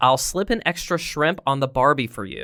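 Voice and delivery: ordinary talk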